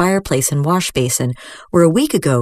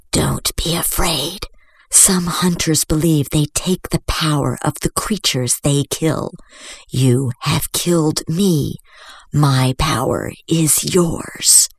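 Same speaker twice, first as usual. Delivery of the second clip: dying dragon; slower than usual. Acted. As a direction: give your power away calmly. Dragon's remembered voice.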